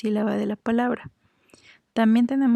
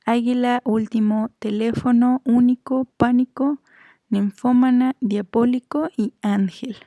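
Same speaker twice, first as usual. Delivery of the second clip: word list punched on the third-last syllable, as in "teléfono" on LÉ; teacher's list, "pánico" stressed on PÁ, "ninfómana" on FÓ; antepenultimate-syllable stress; 2 semitones higher than usual. Shown as a demonstration. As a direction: recite from "águila" on, each word separate, hitting the accented syllable. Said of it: "tenemos por último las esdrújulas".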